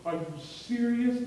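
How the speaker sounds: put-on overwhelmed flower girl can't believe it; tearful disbelief. Preacher voicing flower girl, tearful disbelief. Bride's sister overwhelmed by proposal.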